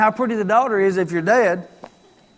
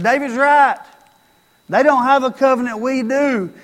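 loud, higher rallying shout; army cheering David; 3 semitones higher, 5 dB louder than usual. Pretend. The whole army backing David, loud rallying shout.

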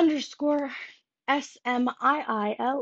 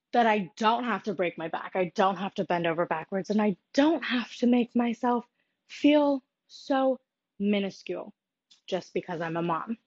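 breathless from walking around; talking while short of breath. Real, not acted. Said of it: "I'm, like, really out of breath".

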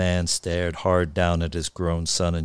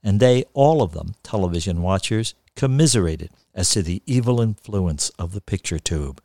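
measured, deliberate storyteller; literary reading aloud; story narration. A narrator's reading. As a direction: read it with wry relish, lingering on phrases.

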